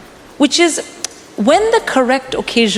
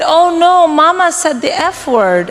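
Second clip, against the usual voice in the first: put-on youngest child; 6 semitones higher than usual. Youngest child reporting Mama's swearing, high alarmed child voice. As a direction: imitate a child's shocked tattling. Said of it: "Our youngest child, she said".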